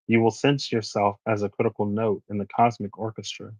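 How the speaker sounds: measured, even reading-aloud voice; card reading. Acted. Reading the tarot guidebook to viewers, measured oracle voice. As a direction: read the guidebook text like an oracle.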